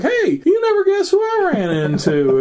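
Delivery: high-pitched retold phone greeting; excited news. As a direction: act out bursting with news. Retold excited phone call to Dad.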